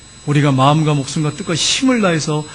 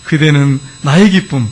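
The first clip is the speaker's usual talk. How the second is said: poem recital; 2 semitones lower, slower than usual. Retold or imitated. Husband reciting his poem for his beloved wife, slow declamation. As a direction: declaim a devoted love poem, drawing out the words. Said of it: "그 아내를 위해서 시까지 졌어요".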